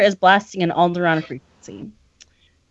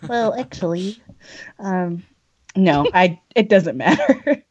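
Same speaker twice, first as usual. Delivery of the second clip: lightly voiced know-it-all nerd; a hint of a pedantic nerd correcting someone. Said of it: "your Neil deGrasse Tyson voice is spot on".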